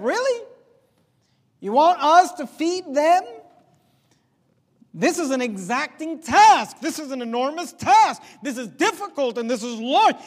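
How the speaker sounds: disbelieving, push back at an impossible job; incredulous disciples. Acted. Disciples balk at Jesus' command.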